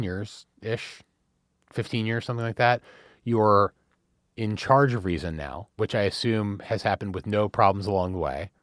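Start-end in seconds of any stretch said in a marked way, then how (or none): 5.8-8.5 dry, understated sarcasm; lightly ironic, as if innocently assuming; sarcastic. Real, not acted. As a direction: slip the sarcasm in at an everyday pitch and volume. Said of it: "you said that in a sarcastic voice".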